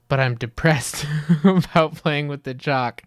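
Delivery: laughing through a mock sad voice; amused parody of a sad kid; mock-gloomy laugh. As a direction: giggle while faking gloom. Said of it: "mockingly laugh".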